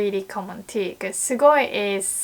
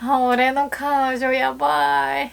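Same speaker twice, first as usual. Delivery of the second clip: higher, delighted yabai; excited praise; 4 semitones higher, 4 dB louder than usual. Shown as a demonstration. Teacher demoing a proud boyfriend's excited praise. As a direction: gush about a girlfriend. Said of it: "But if you say".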